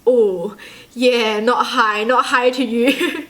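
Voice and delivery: slow, drawn-out mock embarrassment; awkward backtracking. Realizing they waved to someone behind you, slow awkward retraction. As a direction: take it back slowly and awkwardly. Realizes the wave wasn't for them.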